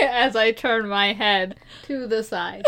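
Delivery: slow, giggling words; stifled giggles. Real, not acted. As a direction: hold back a laugh, slowly. Laughing while talking.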